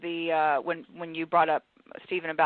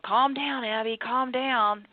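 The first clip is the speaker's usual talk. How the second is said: dismissive calm down; 4 semitones higher, slower than usual. Shown as a demonstration. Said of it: "and I say to you".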